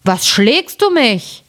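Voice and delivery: langsam, höher, verschlafen fragend; schläfriger Riese. A narrator's reading. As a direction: ein gerade erwachter Riese, gedehnt. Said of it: "stieß seinen Gefährten an und sprach". (verschlafener Riese, langsam)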